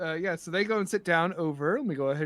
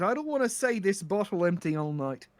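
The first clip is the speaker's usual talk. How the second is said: lightly voiced Irish brogue; Irish accent. Pirate asking to keep drinks coming, light Irish accent. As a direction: order it with a hint of Irish accent. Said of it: "how bad my Irish accent is".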